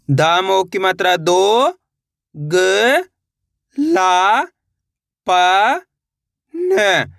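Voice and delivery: slow drill, "दो" stretched, then single sounds with pauses; syllable-by-syllable spelling. Shown as a demonstration. Teacher leading learners to repeat along, slowly spelled out. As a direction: sound out "ग", "ला", "प", "न" one at a time. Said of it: "मेरे साथ साथ इनको repeat करना है".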